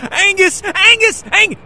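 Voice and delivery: loud, high shout across the room; shouting for the missing Angus; calling out. Acted. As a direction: yell his name to find him.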